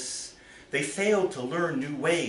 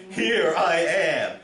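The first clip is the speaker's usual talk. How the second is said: louder, slow call of "Here I am"; slow calling answer, higher and louder; crying out; 6 semitones higher, 5 dB louder, slower than usual. Acted. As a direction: call out to the bush. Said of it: "he cried again".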